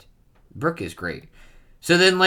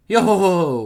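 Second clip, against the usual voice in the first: a light mock of Brook's laugh; imitated laugh; 9 semitones higher, 9 dB louder than usual. The man repeats Brook's laugh, mildly mocking. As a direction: echo his odd laugh back at him. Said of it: "That's an odd laugh you've got there".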